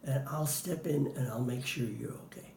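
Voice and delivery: calm him down quietly; soft reassuring words. Retold or imitated. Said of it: "And I would say".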